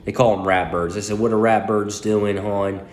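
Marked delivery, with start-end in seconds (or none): 1.2-2.8 lightly imitated Baltimore accent. Quoting a Pittsburgh friend's text about the Ravens, light Baltimore accent. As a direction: quote it with a hint of Baltimore accent. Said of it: "that's a Baltimore accent".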